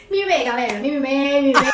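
rising gleeful shout; building triumphant cry. Real, not acted. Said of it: "triumphant climax".

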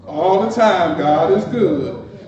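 slow, sing-song churchy phrase; churchy recital. Retold or imitated. Churchgoer mocking pious talk, slow sing-song churchy cliché. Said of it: "We wanna say those things".

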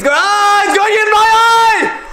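high, loud cry of pain; pained yelp. Real, not acted. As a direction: yelp as it stings. Soap in his eye.

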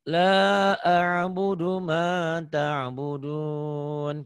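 slow, drawn-out chant; teacher models the verse slowly; slow tajwid recitation; Quran recitation. Shown as a demonstration.

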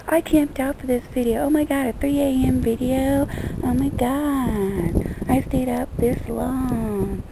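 high, excited fan gushing; hammed-up excited fan. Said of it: "now I see why people go".

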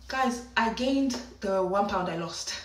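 soft, slow, let-down confession; deflated reveal. Retold or imitated. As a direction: break the bad news quietly, drawn out. Deflated reveal of weight regained.

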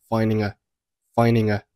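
"finding a" flowing as one word; linked sounds. Shown as a demonstration. Teacher demonstrating linking, "finding a" run together. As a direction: join "finding" to a light "a". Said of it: "Finding和a连读成了".

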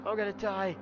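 unvoiced, faint feverish breath; sick sigh. Feverish narrator collapsing on his bed, faint whispered sigh. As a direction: barely get it out. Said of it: "I'm sick".

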